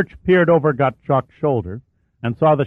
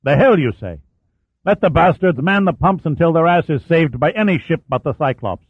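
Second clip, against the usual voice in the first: angry outburst; 6 semitones higher than usual. Acted. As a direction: spit the curse out furiously. Captain rages at his officer.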